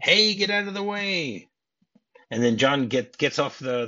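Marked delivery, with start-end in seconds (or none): 0.0-1.5 a slow, higher, hammed-up shouted warning; mock shout. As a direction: call out to clear the way, playfully. Cops shouting in retold scene.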